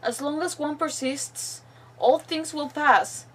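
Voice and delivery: deliberate, phrase-by-phrase reading; reading a captive's diary. Acted. Captive's farewell to the troop, deliberate read-aloud voice. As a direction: read the final words with long pauses.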